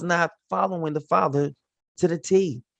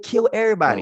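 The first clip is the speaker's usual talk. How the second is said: commanding; 6 semitones higher, 4 dB louder, faster than usual. Retold or imitated. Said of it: "I said".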